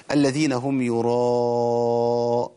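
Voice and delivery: يراء chanted slowly with the a stretched for four beats; slow recitation with a long drawn-out vowel; long vowel demo. Shown as a demonstration. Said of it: "مد متصل".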